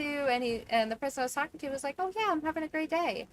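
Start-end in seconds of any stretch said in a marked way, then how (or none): 2.0-3.3 high-pitched imitation of a chirpy caller; cheery caller. Caller tells agent about his day, cheery imitation.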